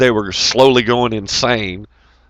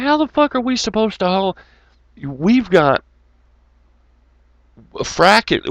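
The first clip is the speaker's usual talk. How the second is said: high, disbelieving retold complaint; mock outrage at the boss; pitched-up incredulous griping; exasperated rant; 6 semitones higher than usual.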